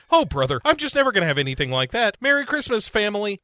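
high, fast, self-pitying squeak; mock Lucy. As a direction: whine it like a lonely sad sack. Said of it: "And she's just like".

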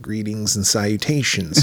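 slow, smooth imitation of Christian Slater's greeting; lightly voiced Christian Slater; Christian Slater impression. Friend imitating the movie rebel's greeting, slow and smooth. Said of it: "so fucking Christian Slater".

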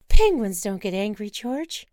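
put-on birthday girl begging to see penguins; eager Wanda. Wife urging husband onward, eager and pleading.

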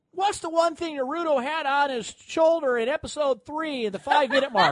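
nerdy obsessive quiz question, pitched high; lightly hammed-up trivia geek; mock trivia nerd. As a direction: ask it like a pedantic superfan. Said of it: "I'm not talking, like, the minutia".

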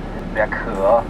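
渴 said slowly and low; slow demo word. Shown as a demonstration. Guide teaching the word for thirsty, slow demonstration. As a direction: draw out 渴 for learners. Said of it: "Are you thirsty?".

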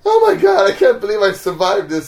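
high, loud burst of disbelief; overjoyed relief. Retold or imitated. New driver amazed he survived the trip, exclaiming in excitement.

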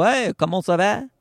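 French with a clumsy English accent; English-speaker's French accent; bad French accent. Shown as a demonstration. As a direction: attempt French in an unconvincing accent. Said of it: "it doesn't sound right".

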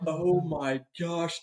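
drawn-out, aghast reaction; embarrassed dad. Retold or imitated. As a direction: drag it out, retelling being mortified. Dad's retold embarrassed reaction.

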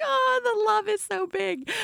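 very high, squeaky mock weeping; imitated tearful gush. Host acting out crying at the film, tearfully. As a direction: blubber it, hammed-up and overcome.

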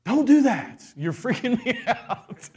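put-on dad laughing at his begging kids; amused dad. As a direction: tell the kids off while cracking up. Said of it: "I'm gonna be like".

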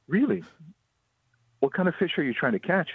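put-on high-pitched talking to a child; voiced gentle concern. Tour owner to the crying girl, acted gentle questioning. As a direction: ask a small child with kindly interest.

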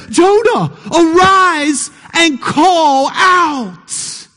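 drawn-out call to wake a sleeper, slow; preacher voicing the captain's slow wake-up call. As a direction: call Jonah up out of sleep, slowly. Captain calls Jonah awake.

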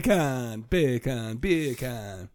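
soft, low Jamaican-accented repeats. Shown as a demonstration. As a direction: try the Jamaican accent quietly to yourself. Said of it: "in a Jamaican ac-, accent".

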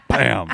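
short loud stamp thud; rubber stamp thunk. Shown as a demonstration. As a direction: punch out a stamp noise. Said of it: "What does a rubber stamp sound like".

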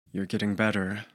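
rough hoarse voice after choking. Acted. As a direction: speak through a hurt throat. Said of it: "His voice was hoarse".

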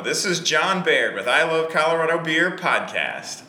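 announcer-style podcast intro. Acted. Podcaster greeting his listeners in a podcast voice. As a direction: read it like a radio host opening the show. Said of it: "Why are you talking like that?".

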